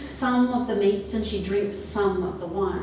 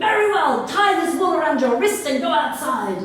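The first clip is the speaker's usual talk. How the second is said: loud, raised impatient order; wolf relenting; 6 semitones higher, 7 dB louder than usual. Acted. Wolf lets girl go on a tether, loud grudging order. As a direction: give in with a loud huff.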